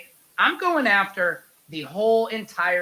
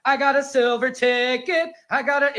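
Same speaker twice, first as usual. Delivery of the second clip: high, thrilled squeal of delight; like a kid with a golden ticket; mock giddy excitement; excited; 8 semitones higher, 4 dB louder than usual. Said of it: "I'm like".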